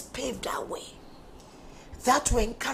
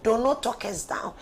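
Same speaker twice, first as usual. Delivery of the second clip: straining with effort; pushing through a tired, strained voice. Real, not acted. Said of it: "I'm struggling very much with my voice".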